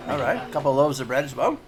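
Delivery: eager tavern server taking orders; barmaid voice. Acted. Barmaid offers bread.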